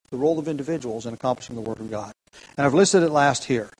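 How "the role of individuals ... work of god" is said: fast, softer restatement of the quote; brisk softer echo of the cited line; quick recap. Shown as a demonstration. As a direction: rattle it back off quietly. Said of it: "end quote".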